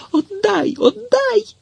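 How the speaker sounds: put-on the boy screaming at Tetiana to give it back, very high; wild scream. A narrator's reading. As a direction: scream it wildly, as if terrified. Boy still demanding the stub.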